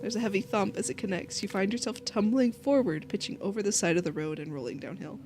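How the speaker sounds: measured game narrator; story narration. A narrator's reading.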